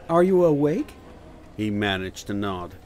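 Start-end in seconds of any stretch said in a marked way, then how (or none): 0.1-0.9 nurse voice. Acted.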